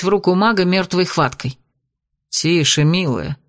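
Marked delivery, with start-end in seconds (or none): 2.3-3.4 мягко и ниже, успокаивая; тихо успокоить девушку; успокаивающе. Acted. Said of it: "успокаивающе проговорил Рантар". (маг успокаивает испуганную девчушку, мягко)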